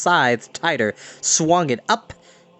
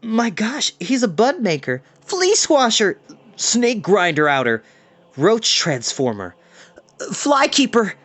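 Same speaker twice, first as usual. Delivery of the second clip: put-on awed boys; 8 semitones higher than usual. Boys gape at Samhain.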